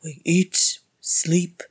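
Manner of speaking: loud, emphatic explaining; exasperated lecture. A narrator's reading. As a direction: hammer each point home loudly. Healer lectures patient after loud sigh.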